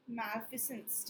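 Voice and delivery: very slow, soft "malfeasance"; careful pronunciation. Shown as a demonstration. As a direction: say "malfeasance" gently, syllable by syllable. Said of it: "इसका pronunciation देख लो". ("malfeasance" धीमे और साफ़)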